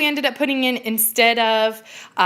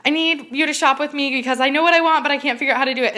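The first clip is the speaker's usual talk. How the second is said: excited plea; 5 semitones higher than usual. Retold or imitated. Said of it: "I called her up and I was like".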